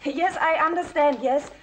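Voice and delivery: langsames Schulenglisch. Acted. Spricht Englisch mit der Haushälterin.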